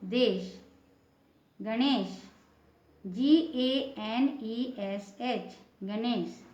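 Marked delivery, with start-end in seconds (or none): 3.0-5.6 letters spelled out slowly one by one; slow spelling. Shown as a demonstration. Teacher spelling a word slowly for students. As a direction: dictate each letter slowly for the class. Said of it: "teacher spells out letters".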